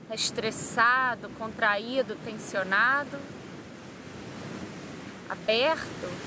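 calm guided-meditation voice with long pauses. Real, not acted. Yoga teacher guiding listeners through body relaxation, calm meditation voice. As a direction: lead them through breathing and relaxation, unhurried.

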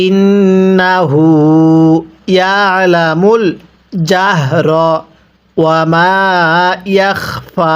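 slow drawn-out tajweed chant; Quran recitation. Shown as a demonstration. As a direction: stretch every vowel like a teacher reciting. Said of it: "আপনি আমার সাথে পড়বেন".

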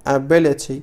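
"ability" with a clear T, British style. Shown as a demonstration. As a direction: say "ability" as a-bi-li-TEE, no D sound. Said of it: "على شكل British accent".

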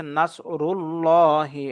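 thick, full l in "নাসরুল্লাহি"; heavy, rounded "llah" in "নাসরুল্লাহি"; full heavy lam. Shown as a demonstration. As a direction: fill the mouth on the lam of "নাসরুল্লাহি". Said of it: "মোটা করে পড়ব".

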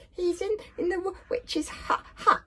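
high, stuttering words through a mouthful; mouth full. A narrator's reading. Dragon warning Hiccup through cookies, mouth full. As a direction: talk round a mouthful of cookies. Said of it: "spoke through a mouthful of cookies".

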